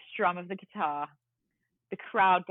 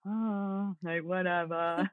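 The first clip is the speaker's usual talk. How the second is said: slow, drawn-out bored whatever; mock indifferent; much slower than usual. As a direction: shrug it off, not caring. Depressed shrug at the usher.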